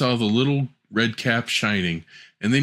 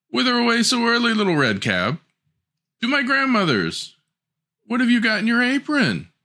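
voiced dialogue; 12 semitones higher than usual. Wolf and girl dialogue.

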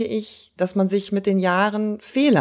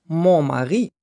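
mild, understated pride; proud; 3 semitones lower than usual. A narrator's reading. Painter fibbing to a curious Russian woman, proudly. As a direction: say it with a touch of pride. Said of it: "sagte stolz".

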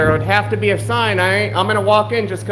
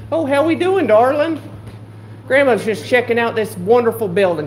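put-on higher, sugary old-lady hello; doting granny greeting; 4 semitones higher than usual. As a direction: coo at the worker like a grandma.

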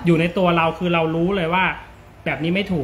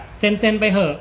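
pushy boss; 3 semitones higher than usual. Retold or imitated. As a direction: lean on the junior to just sign it. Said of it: "เช่นแบบ".

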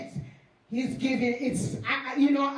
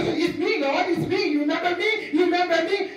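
higher-pitched, insistent appeal; pleading; 4 semitones higher than usual. Acted. Knocker to Jesus at the door, pleading. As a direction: plead to be recognised by someone who has forgotten you.

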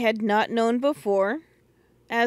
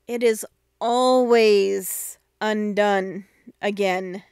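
scolding; 4 dB louder, slower than usual. Acted. Brother scolding sister.

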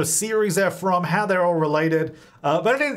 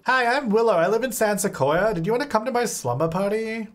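put-on cheerful little girl; 6 semitones higher than usual. Child Sim introduces herself.

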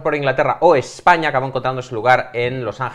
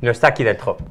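put-on French accent; 3 semitones higher, 6 dB louder than usual. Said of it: "yo intentaré poner acento francés".

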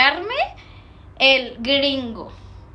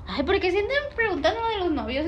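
ordinary delivery

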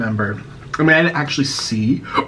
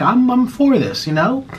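excited; 10 semitones higher than usual. Retold or imitated. Recalls being excited for vegan nuggets.

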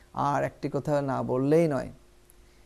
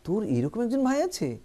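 higher, astonished question; amazed; 4 semitones higher than usual. Shown as a demonstration. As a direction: sound genuinely surprised at a friend. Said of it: "একটু কিন্তু অবাক হয়ে যাচ্ছেন". (অবাক হয়ে প্রশ্ন)

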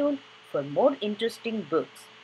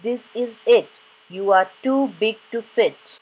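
mock shout; 4 semitones higher, 7 dB louder than usual. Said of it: "Would you shout".

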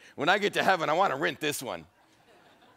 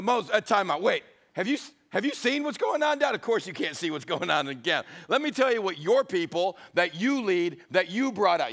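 exasperated God. Acted. God telling Moses about camp.

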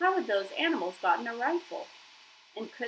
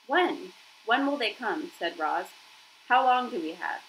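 urgent questioning; 2 semitones higher, 5 dB louder than usual. Acted. Robot urgently questions dying hunter.

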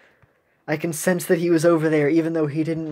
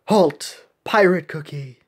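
stern captain voice; 2 semitones lower than usual. Acted. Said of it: "that voice".

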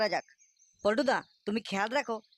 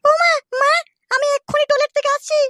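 put-on high, loud girl calling out to her mother; daughter calling; 15 dB louder than usual. Daughter tells her mother she is going to the toilet, high and loud. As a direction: call to mum from across the house, high.

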